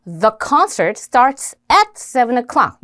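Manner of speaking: very slow English read with function words; careful slow model sentence for learners; full sentence demo. Shown as a demonstration. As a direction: spell out the whole sentence word by word. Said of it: "요렇게 the, at 요런 것들이 기능어가 되겠죠".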